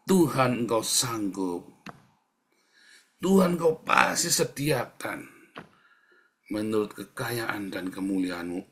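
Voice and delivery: firm prayer, opening words punched; declaration of faith. Shown as a demonstration. Preacher models a statement of faith, emphatic declaring. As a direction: declare it to God with conviction. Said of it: "itu namanya pernyataan iman".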